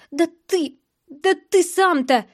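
high-pitched indignant sputter; squealing. A narrator's reading. Sister retorting to her brother's blame, high indignant squeal. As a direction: squeal it in outraged protest. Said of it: "визжала она".

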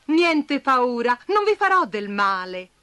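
slow, gentle reassurance; calm the frightened ants; reassuring. Acted. Bastoncello calms the scared ants, reassuring. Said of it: "le rassicurò Bastoncello".

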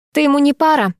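a spiteful shriek at the rival. A narrator's reading. Masha shrieks at the rival, jealous squeal. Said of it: "взвизгнула она".

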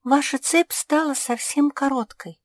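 high, loud gasp of alarm. A narrator's reading. Pug alarmed at the cat's shrinking chain, gasping. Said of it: "ахнула Жози".

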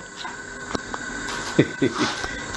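soft breathy chuckle; quiet laugh. Real, not acted. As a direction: laugh under the breath at the joke. Preacher laughing at his joke.

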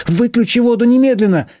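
high loud demand; panicked shout. Acted. Big sister shouts through the bathroom door in panic. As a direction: bang out the order in panic.

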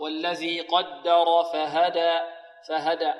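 slow recitation, heavy "قدر" then thin "فهدى"; light letters. Shown as a demonstration. Teacher models the verse, slow, all of "فهدى" light. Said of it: "مرققة".

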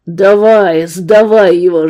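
loud harsh bark; furious demand. Acted. Gunman roaring at the woman to give up her brother. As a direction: spit it at her.

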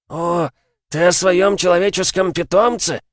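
high, sneering jeer; mocking werewolf. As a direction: taunt him from up high. Werewolf mocks the demon. (насмешливо, с издёвкой)

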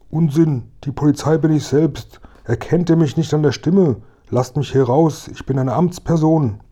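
high-pitched, officious captive voice; indignant policeman, protesting. Acted. Locked-in officer insists he is the police, indignant.

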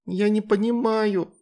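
high, slow whining wail; whimpering child. A narrator's reading. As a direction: whimper while being spanked. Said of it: "подвывала Вероника". (подвывающий ребёнок, выше и медленнее)

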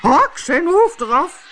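very high, loud, slow scream; screaming queen. A narrator's reading. Queen screams for the gardeners' heads, very high, loud and slow. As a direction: roar the sentence at them. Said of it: "Ze begon te schreeuwen".

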